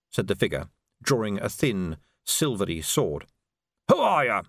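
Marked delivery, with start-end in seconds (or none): 3.9-4.4 higher, alarmed demand; frightened. A narrator's reading. Victim to the hooded assassin, frightened. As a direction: blurt it out in alarm.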